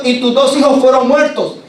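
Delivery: más agudo y fuerte, repitiendo la mala noticia; noticia del mensajero. Acted. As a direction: golpe de la noticia, más alto. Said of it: "Y le está diciendo". (el mensajero repite a Elí la muerte de sus hijos, más alto)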